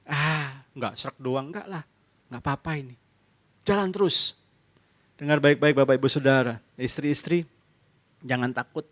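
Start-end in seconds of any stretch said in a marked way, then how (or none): 0.1-4.4 lightly voiced, quiet and offhand brush-off; dismissive husband. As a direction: shrug her warning off softly. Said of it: "take it lightly". (suami meremehkan, pelan dan acuh)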